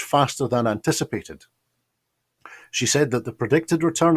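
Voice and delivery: measured scripted news report; presenter reading a prepared report. Real, not acted. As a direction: read out a finance bulletin in even, structured phrases.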